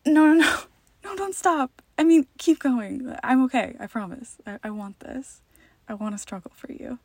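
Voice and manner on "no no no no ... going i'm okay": higher, louder, hurried reassurance; breaking character. Real, not acted. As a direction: quickly reassure your partner.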